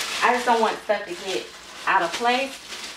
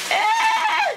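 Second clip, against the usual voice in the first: real very high squeal; excited squeal. Real, not acted. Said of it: "I'm getting excited".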